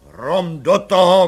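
loud, slow barked order; commissioner's shout. A narrator's reading. Commissioner ordering the baby unwrapped, shouting loudly. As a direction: snap out the command loudly. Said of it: "křikl komisař".

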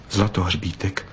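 usual speaking voice

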